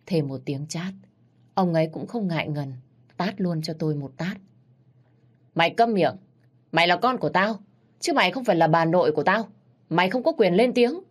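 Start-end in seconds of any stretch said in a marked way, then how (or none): 5.6-11.0 rising to a higher shout at the end; furious father. Acted. Father shutting his daughter up, angry and rising. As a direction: slam each word down on the child.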